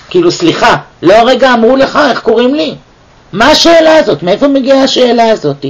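incredulous, pitch jumping high on "מה השאלה הזאת"; God acting offended that Moses asks his name; mock indignant. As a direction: act offended, as if asking "excuse me, really?". Indignant reply voiced for God.

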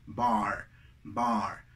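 low, drawn-out "bar" with open ah; emphatic open A. Shown as a demonstration. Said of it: "o agregarle énfasis". ("bar" enfático, con A abierta)

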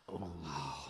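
ordinary talk, nothing marked

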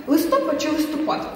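"Листопад чи листопад?" said slowly, both stresses set apart; slow stress contrast. Shown as a demonstration. Quizzing a girl, slow stress contrast. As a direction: offer "листопад" twice slowly with moved stress. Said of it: "правильно поставити наголос".

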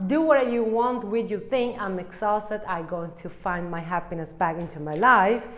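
emphatic, lively kiss-off in the querent's voice; fed-up farewell. Acted. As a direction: declare you're done and walking out. Voices querent breaking up with someone.

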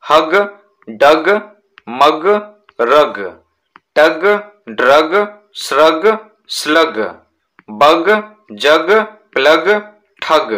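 हग, डग, मग each said clearly as a short separate word; teacher's word-by-word pronunciation drill. Shown as a demonstration. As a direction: model the -ग endings one by one for the class. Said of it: "इसका pronunciation आप समझिएगा".

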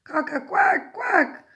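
high, loud duck-like squawk; cockerel's quacking crow. A narrator's reading. Parent reads cockerel trying again, loud high quacking. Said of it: "So he tried again".

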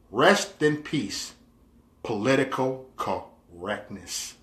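slow, spaced-out solemn reading; mock eulogy. Reading out a mock-mourning status.

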